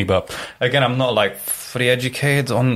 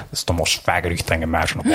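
Richard Nixon; 4 semitones lower, faster than usual. Retold or imitated. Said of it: "I can do a Richard Nixon".

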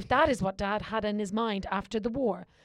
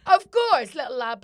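mock dismissive; 9 dB louder than usual. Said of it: "I was like".

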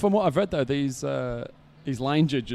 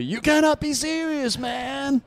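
high, whiny McEnroe impression; John McEnroe; 12 semitones higher, slower than usual. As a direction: whine it like a bratty New Yorker. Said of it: "most famously".

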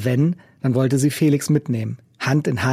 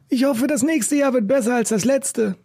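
raised, rough busker voice; gruff old street musician; 10 semitones higher than usual. A narrator's reading. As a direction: play the cynical old busker. Macke's voice.

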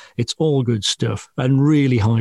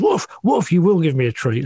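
high mock woof woof, bossy; demanding dog; 5 semitones higher than usual. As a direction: lightly voice the dog insisting on a treat. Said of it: "when he kind of goes".

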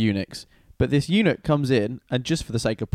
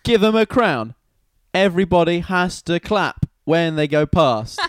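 high and loud, piling up orders; eager proclamation; 5 semitones higher, 4 dB louder than usual. Acted. Haman telling the king how to honor him, eagerly. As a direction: relish every grand demand.

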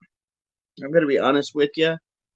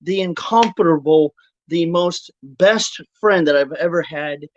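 announcer. Acted. Grand introduction of guest.

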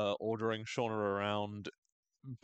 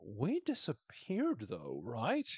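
dazed Trav; much slower than usual. Retold or imitated. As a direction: float it out. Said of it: "He's like".

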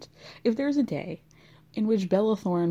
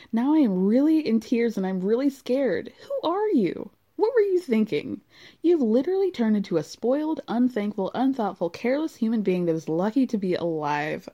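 mock-distraught mom in tears; dramatic mother reading. Reads mother's angry letter dramatically.

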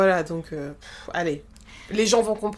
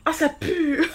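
laughing; 6 semitones higher, slower than usual. Real, not acted. Laughing fit.

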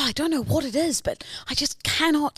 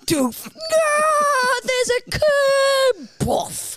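put-on high crying kid, running and falling; child voice; 5 semitones higher, much slower than usual. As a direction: wail like a panicked child. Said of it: "heavy-set eight-year-old".

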